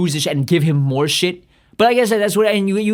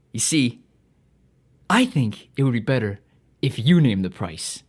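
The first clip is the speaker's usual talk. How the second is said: smug salesman; 3 semitones lower, slower than usual. Retold or imitated. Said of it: "literally like that".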